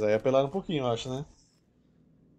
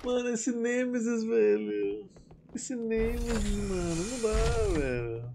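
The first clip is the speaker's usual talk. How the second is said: drawn-out whine; 7 semitones higher, 3 dB quieter, slower than usual. Real, not acted. Slow whining complaint.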